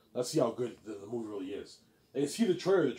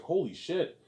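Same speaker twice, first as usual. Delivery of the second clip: sibling raving about Ivan's book; gushing sibling; 2 semitones higher than usual. Retold or imitated. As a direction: rave about the characters. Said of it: "He's like".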